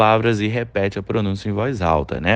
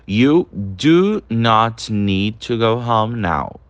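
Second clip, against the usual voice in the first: correct sentence; much slower than usual. Shown as a demonstration. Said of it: "A gente tem que falar com o verbo do".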